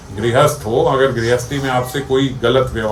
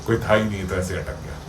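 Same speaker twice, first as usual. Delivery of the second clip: calmed relief; 5 semitones lower, 9 dB quieter than usual. Retold or imitated. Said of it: "गुस्सा शांत हो जाएगा".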